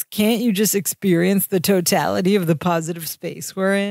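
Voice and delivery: light imitation of a California accent; hippy-dippy Californian, lightly put on; mildly Californian New Age guru talk. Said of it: "goes into that California voice again".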